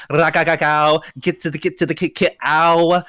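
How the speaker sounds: playful rat-a-tat gun imitation; spray out pretend gunfire with your mouth; mock gunfire noises. Imitating guns a-blazing during hype talk.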